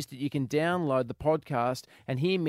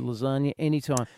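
normal talking voice

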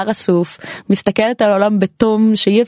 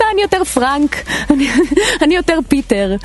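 higher-pitched imitation of eager fans; mock enthusiasm; 6 semitones higher than usual. Voters telling you which character they are, mock enthusiasm. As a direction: gush like an excited fan, half laughing. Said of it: "ושהם יגידו לך בהתלהבות".

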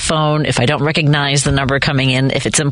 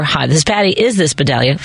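polite phone greeting; 2 semitones lower than usual. Shown as a demonstration. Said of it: "either one of those will work".

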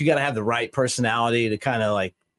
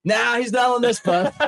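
high, laughing mock Rhino; mock deadpan denial through laughter; 10 semitones higher than usual. Rhino telling the fan, laughing mock deadpan. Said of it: "And Rhino goes".

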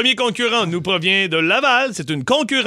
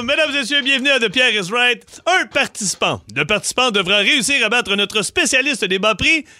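upbeat host announcing the game; game show host; 2 semitones higher than usual. Acted.

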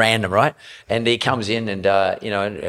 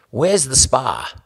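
mock demanding celebrity; 6 semitones higher, 3 dB louder, much slower than usual. Hoff phoning about a spa.

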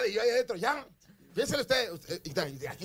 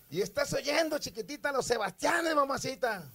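radio dj voice; 7 semitones higher, slower than usual. Retold or imitated. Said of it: "radio style retold".

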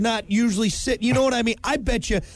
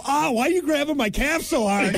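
laughing; 6 semitones higher than usual. Pretend. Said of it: "it's a good thing you didn't go".

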